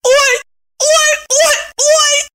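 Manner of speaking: piercing high woman's squeal. A narrator's reading. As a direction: squeal in sudden alarm. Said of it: "завизжала вдруг Евдокия".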